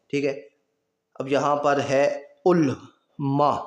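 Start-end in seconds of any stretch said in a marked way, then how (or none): 2.5-3.6 علما said slowly as u-la-ma, pesh on the first letter; علما with short u then la, meaning scholars; pronunciation ulama. Shown as a demonstration. Teacher contrasting spellings, علما said slowly as u-la-ma. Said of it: "اب عین کے اوپر پیش ہے".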